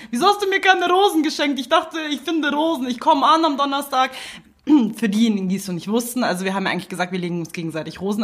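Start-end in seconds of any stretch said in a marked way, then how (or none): 0.0-4.1 mock reproach. Mock reproach over missing Valentine roses.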